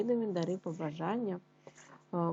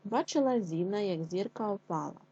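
tongue twister read. Shown as a demonstration. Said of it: "скоромовочку".

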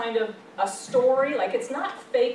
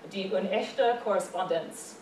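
German accent; 2 semitones lower than usual. Shown as a demonstration. Lecturer shows students the German title, in a German accent. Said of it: "That's my German accent".

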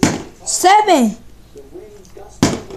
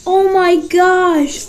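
amazed; much slower than usual. Real, not acted. Amazed at the landing.

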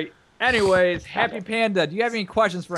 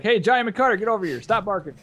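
mock owner yelling for his dog; calling the dog; 6 semitones higher than usual. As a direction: owner calls the dog to come and stop barking, mock call. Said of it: "you're like".

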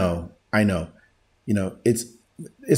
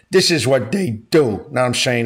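put-on old Hollywood gangster accent, slushy s sounds; hammy old-school gangster accent; James Cagney. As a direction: do an old-movie mobster accent. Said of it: "like the James Cagney old school Hollywood movies".

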